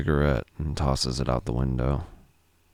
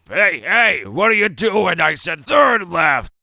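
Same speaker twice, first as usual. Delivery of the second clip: high, loud alarmed yelling; panicked high shout at the wheel; 8 dB louder, slower than usual. Acted. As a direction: yell at the driver who missed the turn. Jeremy misses the turn, Joey yells.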